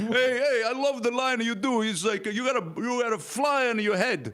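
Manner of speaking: high, loud gushing fan voice; hammed-up star-struck fan quoting badly; excited fan. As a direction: gush like an overexcited fan. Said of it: "people always screw it up".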